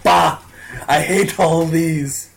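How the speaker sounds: slow disgusted grumble; grumpy Superman voice. Retold or imitated. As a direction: huff it out, bored king. Quoting grumpy Superman cover.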